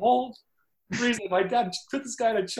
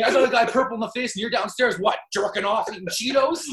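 angry dad; 4 semitones higher, 5 dB louder than usual. Retold or imitated. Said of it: "He's like".

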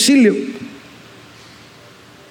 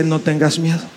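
soft reassurance; 3 semitones lower, 3 dB quieter than usual. Acted. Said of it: "Y el Señor te dice".

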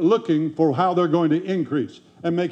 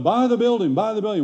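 lightly acted urging, pitched higher; urging advisers; 4 semitones higher, faster than usual. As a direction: quote them pushing him, voice raised in pitch. Advisers urging the pastor, retold.

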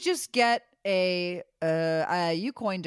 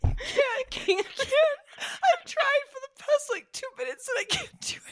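helpless laughter. Real, not acted. Laughing while failing to sip.

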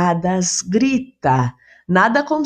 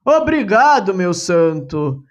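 grateful, hands clasped. Acted. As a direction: thank the saint with heartfelt relief. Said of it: "exclamou ele de mãos postas".

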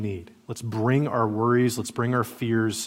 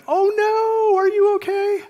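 high, alarmed panicky parent voice; mock-panicked, very high and louder; 5 dB louder than usual. Panicked parent rushing to a fallen child, mock alarm. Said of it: "One was like".

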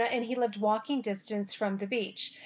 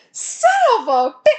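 high, loud mock cursing; furious grandpa curse; 11 semitones higher, 9 dB louder than usual. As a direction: spit out the oath as an angry old man. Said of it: "he was so pissed".

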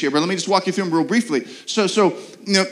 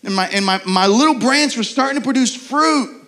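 frustrated believer; 5 semitones higher than usual. Retold or imitated. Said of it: "you're like".

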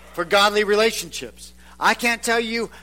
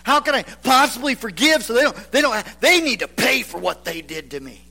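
indignant objection; 2 semitones higher than usual. Retold or imitated. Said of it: "and we say".

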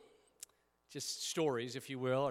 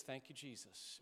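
softer, whispered-quiet thanks; soft prayer; 11 dB quieter than usual. Shown as a demonstration. A pastor demonstrating a calm breath prayer to church, softly. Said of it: "somebody says".

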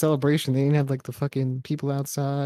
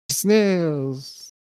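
fake French accent; 3 semitones higher than usual. Shown as a demonstration. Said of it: "fake a French accent".

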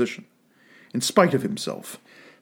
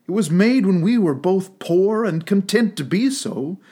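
put-on young girl, sorrowful; 5 semitones higher than usual. Girl voiced in the story.

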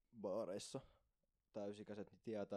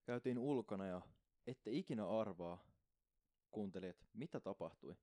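lightly dramatized storyteller, drawing out the suspense; storytelling narration. Real, not acted. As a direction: tease the listeners like an audiobook narrator. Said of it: "Miksi toi kuulostaa niin tommoinen tarina". (tarinankertojan ääni)

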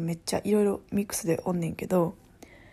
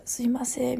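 すいません higher, with restrained Kansai accent; toned-down Kansai accent; 4 semitones higher than usual. Shown as a demonstration. Speaking to an unfamiliar colleague, with Kansai accent toned down. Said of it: "控えめモードにして喋るけどさ".

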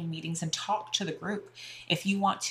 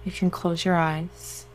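guided meditation. Acted. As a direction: soothe them into relaxation.

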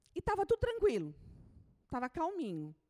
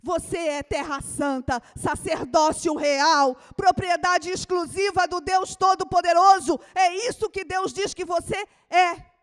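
loud, fervent preaching; sermon cry; preaching at full force; 5 semitones higher, 15 dB louder than usual. Acted. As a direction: proclaim it over the congregation. Preacher proclaiming identity.

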